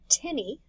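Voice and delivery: "tini" slowly, first syllable stressed. Shown as a demonstration. Greek teacher showing where the accent sits, "tini" stressed at the start. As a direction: lean on the opening "ti" of "tini". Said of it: "see how the accent's at the beginning".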